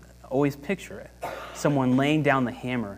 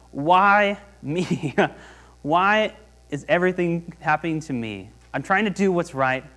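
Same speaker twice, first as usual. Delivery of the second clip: raised, pleading cry to God; David crying out; 3 semitones higher, 4 dB louder than usual. Retold or imitated. David crying out to God, mild pleading lament. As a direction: plead with heaven, lightly acted. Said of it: "David here is crying out to God".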